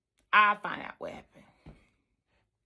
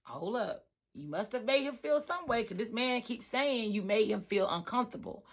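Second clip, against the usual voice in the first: calm pushback; 6 dB quieter than usual. Retold or imitated. Telling the coworker to hold up, soft and level. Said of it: "I said".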